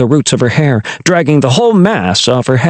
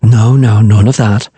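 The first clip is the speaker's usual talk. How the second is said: soothing; 2 semitones lower, 3 dB louder than usual. Acted. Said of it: "soothed Vess".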